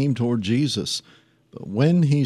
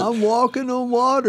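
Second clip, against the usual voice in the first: boastful show-off; 13 semitones higher than usual. Retold or imitated. Mocking Peter boasting.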